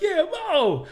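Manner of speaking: high, loud shout of the name; crowd yell. Retold or imitated. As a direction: call out like an impatient fan. Crowd member chanting his name.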